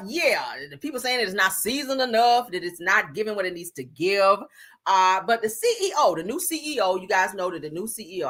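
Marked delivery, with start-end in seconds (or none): 4.9-8.3 speaking through a nose full of nasal spray; stuffy nose from too much spray; blocked nose. Real, not acted. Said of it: "I put too much, uh, nasal spray up in my nose".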